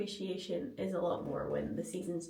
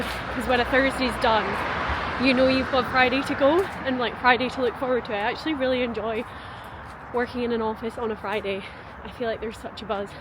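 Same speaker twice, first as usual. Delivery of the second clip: talking out of breath while walking; out of breath, panting between words; 4 semitones higher, 13 dB louder than usual. Real, not acted. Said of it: "I'm so out of breath".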